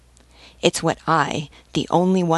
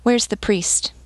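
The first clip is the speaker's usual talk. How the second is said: calm question, lightly higher pitched; understated serenity; serene; 5 semitones higher than usual. A narrator's reading. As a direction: ask it with mild, untroubled composure. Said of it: "he added serenely".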